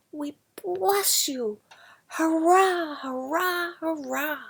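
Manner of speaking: whisper-shouted crowd hailing their savior; bellowing crowd. Acted. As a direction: hail the conqueror like a roaring mob. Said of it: "bellowed his name".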